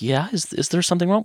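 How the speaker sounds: high, gentle questioning; sweet, puzzled mom. Retold or imitated. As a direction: ask innocently as a sweet mother. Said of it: "the sweetest lady ever".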